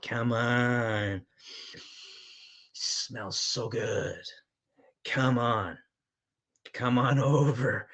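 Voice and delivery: slow, drawn-out come-hither invitation; coaxing. Real, not acted. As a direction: lure them over, stretching the words. Coaxing viewers to join in.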